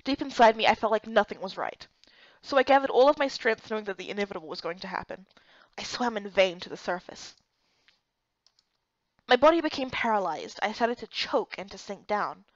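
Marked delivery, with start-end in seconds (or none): 3.7-7.4 whispered, much softer narration. A narrator's reading. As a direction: breathe it out as if losing air. Narration of drowning moment.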